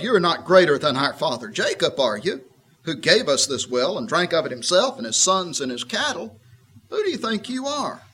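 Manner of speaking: a scoffing retort that climbs in pitch; tart challenge. Retold or imitated. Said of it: "a sort of a tart tone of voice".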